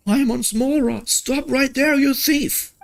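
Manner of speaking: impatient tiny companion urging the traveler, high and squeaky; squeaky Paimon voice. Acted. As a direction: chirp it like a tiny fairy sidekick.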